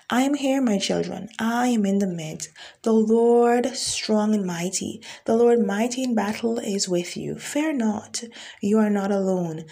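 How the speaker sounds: preaching prophecy with rising force; prophetic declaration. Acted. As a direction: declare it as the word of the Lord. Speaks as the Lord.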